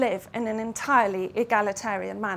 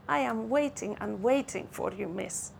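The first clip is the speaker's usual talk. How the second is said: sweetly. Acted. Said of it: "he said sweetly".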